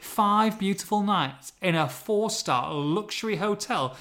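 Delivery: five said slowly with weight; stress on five. Real, not acted. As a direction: lean hard on five. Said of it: "Liam, count it".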